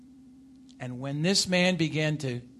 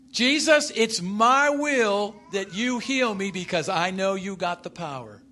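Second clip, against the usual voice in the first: mock demanding prayer; 2 semitones higher, 5 dB louder than usual. Preacher acting what the leper didn't say to Jesus, mock demanding. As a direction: play a presumptuous plea.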